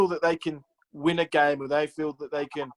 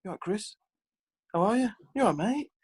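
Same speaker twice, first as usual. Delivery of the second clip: much higher, overly cheery mock greeting; friendly Lenny; 11 semitones higher than usual. Manager greeting the player later, hammed-up friendly. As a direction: switch to a sugary, sing-song friendly boss. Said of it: "So he's kind of switched".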